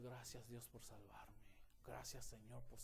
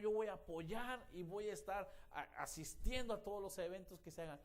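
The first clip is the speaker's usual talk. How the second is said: raised, insistent preacher's voice; fervent preaching; 4 semitones higher, 5 dB louder than usual. Acted. Preacher urging the congregation to join a church, loud and fervent. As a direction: drive the point home to the congregation.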